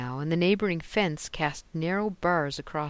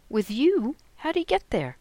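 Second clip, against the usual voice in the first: higher, louder, caught off guard; startled disbelief; 9 semitones higher, 7 dB louder than usual. A narrator's reading. Mother hearing her son is with the tutor, shocked and higher. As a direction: gasp it out, stunned.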